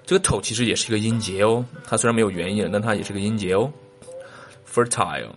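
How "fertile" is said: "Fertile" as FUR-tile; full second vowel. Shown as a demonstration. Teacher allowing the alternative, "Fertile" rhyming with tile. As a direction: say "Fertile" with a clear t and long i. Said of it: "Fertile也可以啊".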